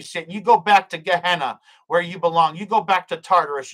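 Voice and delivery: firm prayer of rebuke, each phrase falling at the close; commanding prayer. Real, not acted. Breaking curses over God's people and rebuking Satan, commanding. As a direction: order the enemy away with authority.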